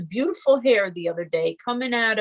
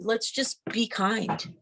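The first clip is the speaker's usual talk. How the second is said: softer, slow repeat; softer and slower second ask; gentle plea; 6 dB quieter, slower than usual. Real, not acted. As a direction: say it again softly, slowly, like a gentle reminder.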